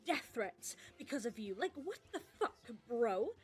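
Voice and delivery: a hint of a bitter, ranting poster; lightly voiced angry ranter; dramatic rant reading. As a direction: read the rant like a wounded hothead.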